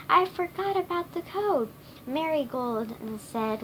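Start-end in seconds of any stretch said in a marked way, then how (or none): 0.1-1.7 high-pitched exclamation; yelling. A narrator's reading. Wizard owns up to the others, mildly yelling. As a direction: blurt it out in a raised voice. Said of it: "Wizard yelled".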